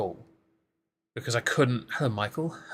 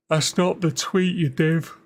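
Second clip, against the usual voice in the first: higher and louder, telling himself off; exasperated self-scolding; 7 semitones higher, 6 dB louder than usual. Real, not acted. Streamer scolding himself over the wrong tweet, exasperated. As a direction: snap at yourself for clicking the wrong thing.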